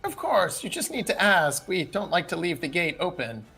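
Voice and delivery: lightly voiced reassuring old man; a hint of an obliging old gatekeeper. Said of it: "a very old man".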